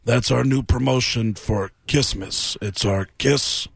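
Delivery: slow, lightly voiced rock-star impression; a hint of a deadpan rock-star pitchman; rocker impression. The rocker pitching his merch to Sebastian, lightly voiced slow impression. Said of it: "And he apparently goes".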